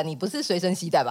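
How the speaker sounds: ordinary delivery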